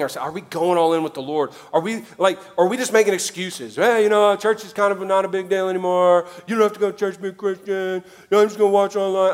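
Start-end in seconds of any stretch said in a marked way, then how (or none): 3.8-9.3 mock excuse voice. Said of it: "you all talk like this in my head".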